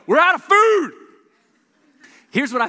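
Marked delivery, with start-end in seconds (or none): 0.1-0.9 loud, high shout across the lobby; yelled back. Retold or imitated. High schoolers yelling back down the line, loud and high. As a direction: call out the bad news at full voice. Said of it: "They yelled back as they go".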